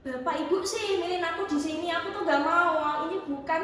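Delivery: mildly cross complaint; a touch of protest in the voice; retold anger at parents. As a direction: imitate reproaching your parents. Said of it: "kesannya saya marah sama orang tua saya".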